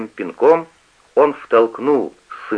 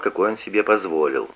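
usual speaking voice

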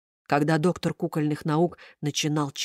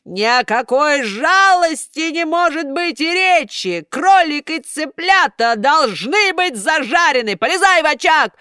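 furious command; 9 semitones higher, 6 dB louder than usual. A narrator's reading. Karabas orders Buratino into the fire, roaring. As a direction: bellow the order.

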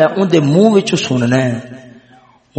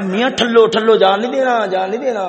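urging to stop; 5 semitones higher than usual. Acted. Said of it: "ایک معنی کیا کر رہے ہیں".

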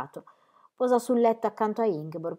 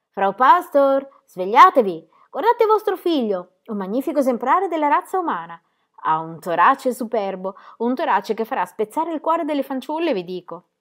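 shouted in her ear; 6 semitones higher, 7 dB louder than usual. A narrator's reading. Midwife shouting into the mother's ear, scandalised. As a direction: bellow it right into her ear. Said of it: "le gridò all'orecchio".

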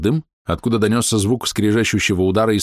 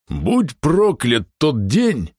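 dramatic curse; 5 semitones higher, much slower than usual. A narrator's reading. Half-orc curses the day.

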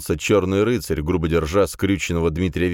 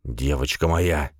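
relieved; 3 semitones lower, slower than usual. A narrator's reading. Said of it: "с облегчением заключил".

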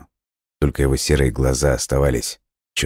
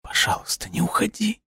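high, voiceless whispered plea; silent whisper; 6 dB quieter than usual. A narrator's reading. Girl silently begs the vanishing boy, pleading whisper. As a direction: mouth it almost soundlessly, pleading. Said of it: "беззвучно повторяли её губы".

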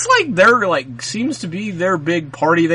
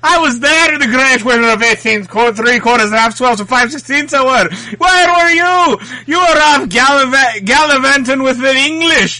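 mock Irish accent, higher, bragging rant; bad Irish accent; 8 semitones higher than usual. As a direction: rant back at your friend in a piss-poor Irish accent. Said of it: "extravagant tales in an Irish accent".

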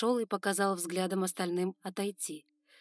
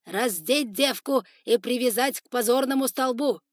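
loud commanding shout, pitched up; barked order; 5 semitones higher, 10 dB louder than usual. Acted. Spider lord ordering warriors to bind the girl, shouting.

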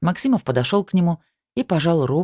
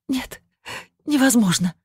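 high, panicked cry; panicked denial; 9 semitones higher than usual. Acted. Sveta seeing no reflection in the mirror, panicking. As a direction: refuse to believe it.

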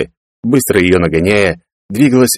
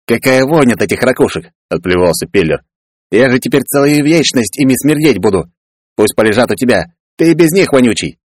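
disgusted grumbling; 5 semitones higher than usual. Acted. Peller grumbles about the stench.

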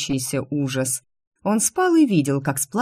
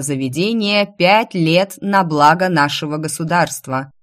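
town crier. Acted. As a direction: announce it to the whole square. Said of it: "извещал глашатай".

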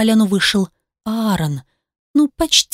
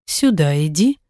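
commanding beast; 5 semitones lower than usual. A narrator's reading.

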